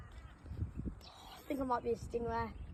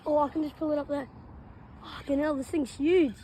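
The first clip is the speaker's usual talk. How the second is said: strained, fast and loud; hauling in a heavy fish; fighting a fish; 3 semitones higher, 4 dB louder than usual. Real, not acted.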